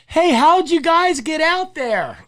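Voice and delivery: high, slow shout across the ice; calling out. Retold or imitated. Men on the bank shouting to the group on the ice, high calling voice. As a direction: call out from far away, amazed. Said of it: "they yell out".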